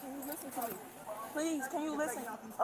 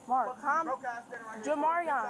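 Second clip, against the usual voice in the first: urgent pleading call; 3 dB louder, slower than usual. Real, not acted. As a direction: call out to him loudly and desperately. Begging him to calm down.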